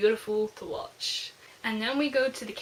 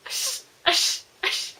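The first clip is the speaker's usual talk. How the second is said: high, unvoiced shushing; soothing shush; 8 semitones higher, 4 dB louder, slower than usual. Real, not acted. Reader hushing herself mid-cry, unvoiced shh. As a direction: hush herself through the tears. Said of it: "burst into tears".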